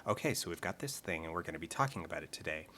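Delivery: imitating a teen girl's vocal fry. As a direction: mimic a bored teen vlogger in fry. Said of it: "talking like this".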